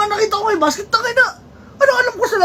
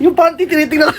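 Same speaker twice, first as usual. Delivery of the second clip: laughing. Real, not acted. Breaks up at own prank answer.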